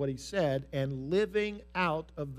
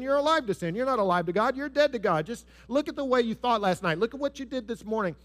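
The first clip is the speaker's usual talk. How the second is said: much higher, louder taunting; a sneering accuser at full push; accusing Satan; 6 semitones higher, 3 dB louder than usual. Acted. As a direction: throw their sins in their face. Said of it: "Satan is certainly gonna whisper in our ear and say".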